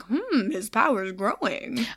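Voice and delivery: slow, faux-British Percival voice; a light, drawn-out fake British accent. Podcaster quoting Percival's reaction to Jughead's power, slow mock-British accent. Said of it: "we both do the same Percival accent".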